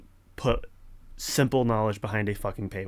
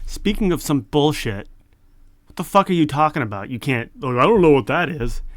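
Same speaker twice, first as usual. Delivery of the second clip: angry outburst; 3 semitones higher, 5 dB louder than usual. Real, not acted. Yelling at confusing AI answer.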